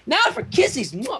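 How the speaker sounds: high, sing-song cutesy. Acted. Pinkie cooing about kissies in a high cutesy voice. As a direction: coo it playfully. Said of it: "Pinkie voice".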